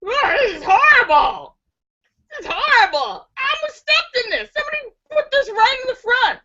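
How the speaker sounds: a redneck wailing about a mess on the porch; redneck proudly complaining. Acted. Redneck shows the bartender the mess, high and wailing. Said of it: "proudly says".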